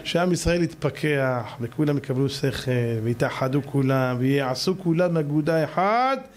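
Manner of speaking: slow, measured blessing voice; closing prayer. Acted. Preacher blessing his audience at the end, in a slow prayer voice. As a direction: pray it out slowly to the congregation.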